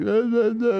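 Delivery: mock dazed babble; groggy mumbling. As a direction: imitate a half-alive mumble on a call. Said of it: "I sound like I'm half alive".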